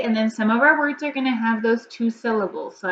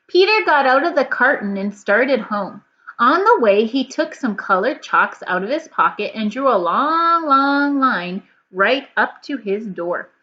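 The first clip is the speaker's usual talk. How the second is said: put-on lively, louder storybook reading to children; story read-aloud; 2 semitones higher, 4 dB louder than usual. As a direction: read it with big expression for kids. Reads the story aloud to class.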